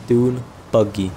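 Dune Buggy stretched out slowly; careful pronunciation. Shown as a demonstration. Gamer confirming the name Dune Buggy, slow and careful. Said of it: "I said it right, hold up".

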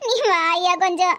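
slow, tearful plea; crying. Acted. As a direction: beg your son through tears. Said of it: "என்னன்னு அழாம சொல்லுங்கம்மா". (அழுதபடி மெதுவாகக் கெஞ்சல்)

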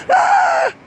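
sharp high shriek; startled scream. Real, not acted. Player shrieks at a jump scare. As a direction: scream as it jumps out.

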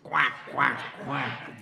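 duck quack. Shown as a demonstration.

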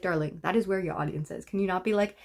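a light put-on British accent. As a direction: play a snooty Brit scolding an influencer. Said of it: "I became British in that".

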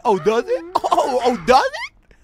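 loud sarcastic question, climbing high; mocking disbelief. Real, not acted. Mocking the game's message.

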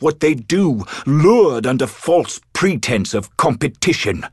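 rising alarm; urgent alarm. Acted. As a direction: rush the warning out as dread mounts. Urgent warning of the creature's return.

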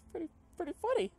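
high squeaky laughter; cracking up. Real, not acted. Streamer cracking up at a silly name, real laughter. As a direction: lose it laughing.

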